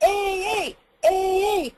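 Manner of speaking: repeated pressed ee, larynx jumping. Shown as a demonstration. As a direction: bounce ee from below. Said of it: "But if I go".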